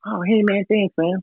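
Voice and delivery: high offhand thanks from Vince; imitating Vince. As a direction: toss it off like a distracted rock star. Voicing Vince taking the CD.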